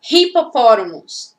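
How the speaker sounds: "hipopótamos" opening on a breathed H; aspirated H. Shown as a demonstration. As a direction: sound the first letter of "hipopótamos" as English H. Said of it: "se eu escuto o R". ("hipopótamos" com H aspirado, como R brasileiro)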